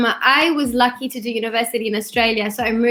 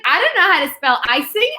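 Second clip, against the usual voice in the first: a hint of the goddaughter's small voice; imitating a little girl; 3 semitones higher than usual. Goddaughter explaining she can't spell, lightly voiced child. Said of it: "She's just like".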